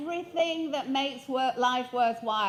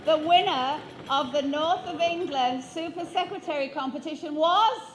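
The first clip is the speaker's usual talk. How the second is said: announcer voice; 3 semitones higher, 5 dB louder than usual. Acted. Mock announcing a contest result.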